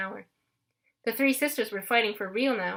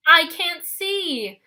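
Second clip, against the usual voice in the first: high, loud, slow panicked cry; blinded sisters yelling together; 8 semitones higher, 8 dB louder, much slower than usual. A narrator's reading. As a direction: wail out the blindness. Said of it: "all three sisters yelled".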